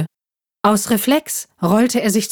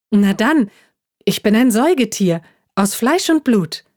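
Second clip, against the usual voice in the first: proud; 4 semitones higher than usual. Acted. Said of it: "erklärte der Igel stolz".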